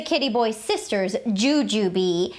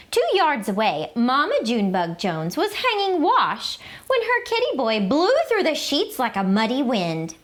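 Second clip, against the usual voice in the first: lively, expressive storybook read-aloud; reading to children. A narrator's reading. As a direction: read it like story time for little kids. Reads picture book to children.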